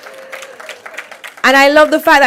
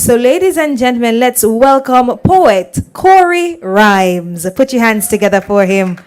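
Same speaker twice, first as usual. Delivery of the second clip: stage introduction. Acted. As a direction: bring the poet on with a flourish. Host introduces the poet.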